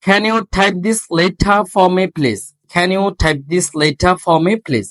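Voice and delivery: very slow, deliberate reading with breathy stops; slow drill. Shown as a demonstration. Teacher slowly modelling a question for students. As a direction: read it slowly, puffing each stop. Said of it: "আর এর উচ্চারণ হচ্ছে না".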